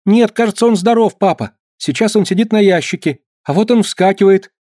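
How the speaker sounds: high, eager report; a boy breathless at the sight; excited boy. A narrator's reading. (взволнованный мальчишка)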